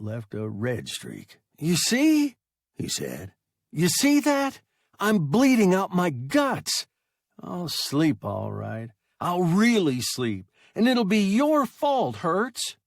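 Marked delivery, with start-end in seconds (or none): 1.6-12.8 high, loud hysterical pleading; hysterical boy. A narrator's reading.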